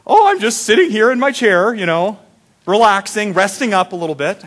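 high, lilting imitation of a grandma. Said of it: "can't do my grandma voice very well".

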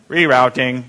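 low, lightly imitated robot navigator. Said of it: "that robot voice".

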